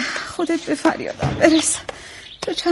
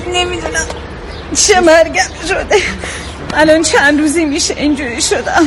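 tearful laugh; 3 semitones higher than usual. Acted. Sick mother, half laughing half crying.

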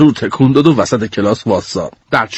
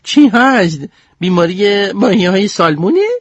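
put-on high, puzzled girl voice; 6 semitones higher than usual. Goldie asks Hiccup about salmonella, high puzzled voice. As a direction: ask it bewildered.

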